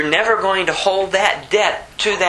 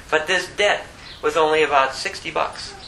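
usual speaking voice

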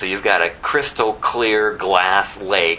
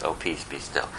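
soft, soothing calm voice; Jesus calms the sea, softly and sweetly; gentle and nice; 6 semitones lower, 10 dB quieter than usual. Shown as a demonstration. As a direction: say it like a gentle lullaby. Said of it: "it sounds very nice".

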